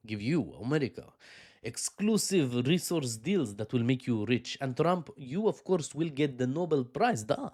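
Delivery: lightly put-on Russian accent, coaxing Trump; a playful hint of a Russian accent, sweet-talking. Vlogger imitating a Russian leader tempting Trump, light Russian accent. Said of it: "I was gonna try a Russian accent".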